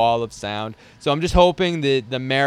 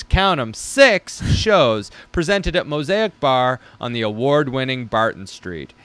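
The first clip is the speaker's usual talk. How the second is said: lightly pompous reading of his pitch; grandiose announcer. Acted. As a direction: read it like a mock-grand herald. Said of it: "This is what I wrote".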